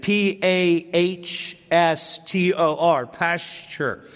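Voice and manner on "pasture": "pasture" with a sh sound, dropping softer; PASS-cher for "pasture", said softly; pronounced "pasture". Shown as a demonstration. Preacher repeats the word after spelling it, "pasture" with a soft sh. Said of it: "is pronounced".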